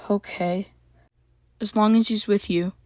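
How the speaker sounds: quiet, gentle giving in; softly. A narrator's reading. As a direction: soften and relent. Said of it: "she said softly".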